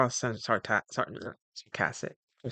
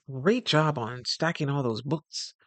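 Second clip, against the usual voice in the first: slow, drawn-out sarcastic praise; mock-sweet praise with a rising lilt; a hint of fake praise, dragged out slowly; backhanded compliment; slower than usual. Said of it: "It's like a backhanded comment".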